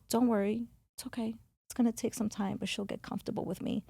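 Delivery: softly spoken retold reassurance. He tells her friend she'll get comfortable, soft reassurance. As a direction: reassure quietly, voice dropping away.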